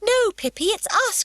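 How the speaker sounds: put-on high, loud child calling through the door; crying out. A narrator's reading. Annika calling to Pippi through the door, high and loud. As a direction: call out so she'll open up. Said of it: "cried Annika".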